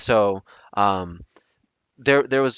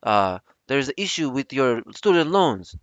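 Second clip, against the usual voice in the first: put-on clumsy Filipino accent, slightly higher; bad Filipino accent; 3 semitones higher than usual. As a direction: attempt a Filipino call-center accent, badly. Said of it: "that accent I just did sucked".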